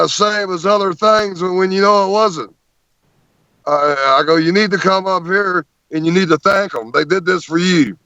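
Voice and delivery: high, fervent insisting; excited lecture to crew. Retold or imitated. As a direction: drive it home, voice pitched well up. Lecturing the crew after howl.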